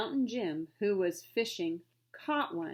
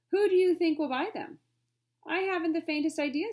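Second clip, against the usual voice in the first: exasperated; 9 semitones higher, 7 dB louder than usual. Acted. Trader and butler on buyers.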